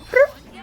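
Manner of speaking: cat trill imitation. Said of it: "the cat goes".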